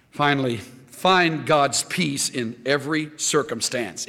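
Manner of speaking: "every" weighted in a slow "find God's peace in every circumstance"; slow down and lean on "every"; stress on every. Shown as a demonstration. Preacher stresses "every" in his final point, slow. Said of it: "Emphasis on every".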